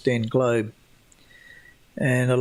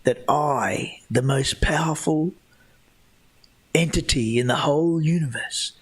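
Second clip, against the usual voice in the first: indignant God; 2 semitones higher than usual. Retold or imitated. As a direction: play God scolding the doubters, mildly hammed-up.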